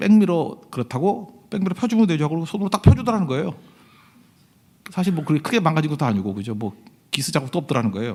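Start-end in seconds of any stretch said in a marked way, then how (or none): 0.0-2.3 shameless, brazen attitude. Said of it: "이 아저씨가 아주 적반하장이죠".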